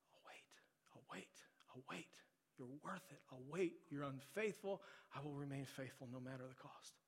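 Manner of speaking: soft, hushed, patient vow; tender quiet promise. Acted. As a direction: whisper it like a loving promise. God's patient promise voiced softly.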